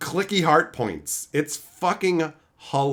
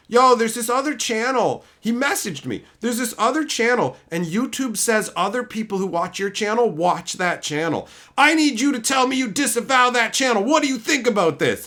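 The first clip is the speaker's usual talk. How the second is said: mock whiny viewer; 6 semitones higher than usual.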